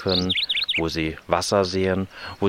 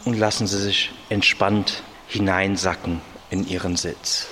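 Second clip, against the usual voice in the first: calm guided relaxation voice; slow, hushed meditation guide; soothing spa whisper; slower than usual. Shown as a demonstration.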